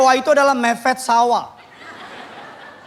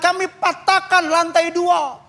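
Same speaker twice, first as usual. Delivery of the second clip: mock fervent prayer; 2 semitones higher, slower than usual. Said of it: "doanya semangat".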